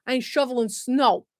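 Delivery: put-on casual New York accent; attempted New York accent. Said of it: "that was a good New York accent".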